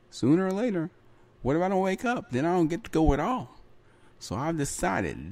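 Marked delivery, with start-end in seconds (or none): 0.1-3.6 alarmed realisation. Retold or imitated. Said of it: "And I was like".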